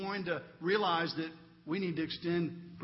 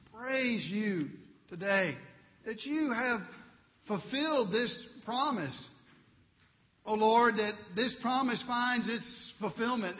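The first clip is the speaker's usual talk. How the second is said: public prayer. Real, not acted. Pastor leading congregation in closing prayer, earnest and measured. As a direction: call out earnestly to God, settling toward the amen.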